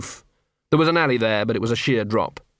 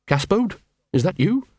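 higher dog voice, anxious; Big Fido calling up; 8 semitones higher than usual. Acted. Dangling poodle calls to Gaspode, anxious higher dog voice.

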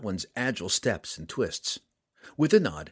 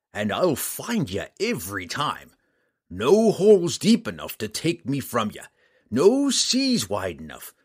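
loud, slow gruff threat; menacing threat; 3 semitones higher, 5 dB louder than usual. Acted. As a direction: growl the promise of a hunt. Bounty hunter threatening the drow.

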